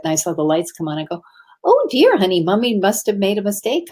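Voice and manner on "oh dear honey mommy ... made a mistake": high-pitched "oh dear", then easing down; retold mommy voice, lightly dismayed; mother soothing child. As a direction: break mild bad news to a small child. Mother talking to her child.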